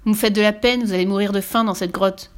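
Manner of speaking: mock pity, called out; calling out. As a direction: shout up to the children. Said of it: "Il cria aux enfants".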